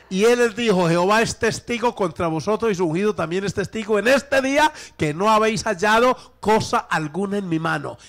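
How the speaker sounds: emphatic preacher reading a solemn oath; declamatory scripture reading. Acted. Preacher reading the prophet's oath to church, declamatory. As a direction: declaim it to the congregation. Reads scripture at full force.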